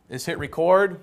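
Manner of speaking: ordinary talk, nothing marked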